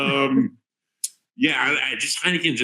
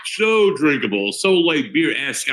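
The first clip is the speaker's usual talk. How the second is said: slow savoring; 2 semitones higher, slower than usual. Real, not acted. Savoring praise of beer.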